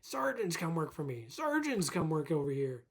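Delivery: a light imitation of the owner calling out; mock bragging boss. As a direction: show off to the staff like a boastful owner. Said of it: "she always bragged".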